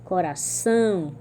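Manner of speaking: coração, slow, with stress on the final ÇÃO; última sílaba forte. Shown as a demonstration. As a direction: lean on the last syllable of coração. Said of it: "têm a última sílaba forte". (coração, alongando o ÇÃO final)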